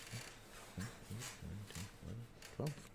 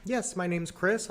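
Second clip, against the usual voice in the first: slow, clearly spaced words for a machine; 6 semitones higher, much slower than usual. Real, not acted. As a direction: spell it out slowly for a robot. Speaking to automated answering system.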